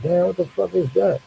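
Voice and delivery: high, shocked "what the fuck is that"; startled outburst. Retold or imitated. Waking to the devil, a high startled cry.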